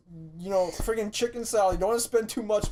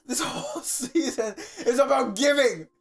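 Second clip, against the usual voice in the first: loud, high, angry rant with laughter breaking in; ranting ghost; 6 semitones higher, 7 dB louder than usual. Acted. Curmudgeonly ghost scolding Scrooge, laughing angry shout. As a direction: scold him like a furious spirit.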